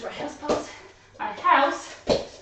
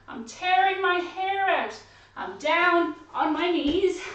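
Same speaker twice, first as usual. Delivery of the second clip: put-on despairing old lady; 5 semitones higher, 4 dB louder than usual.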